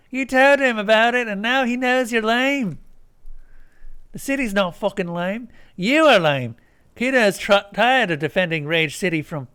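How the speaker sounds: high, loud furious rant; angry Kuno rant. Acted. Kuno ranting at the player, furious. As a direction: rage at the lame cop.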